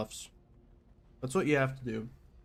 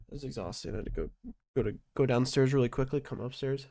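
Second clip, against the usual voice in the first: winded, gasping between words; out of breath. Real, not acted. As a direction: talk while catching your breath. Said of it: "Like, out of breath".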